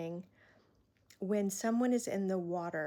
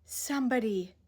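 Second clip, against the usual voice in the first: louder, fast desperate plea for relief; frantic plea; 4 dB louder, faster than usual. Retold or imitated. Imitating a heartbroken person's frantic plea, louder and fast. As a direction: beg for anyone to end the pain. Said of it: "that sort of frantic".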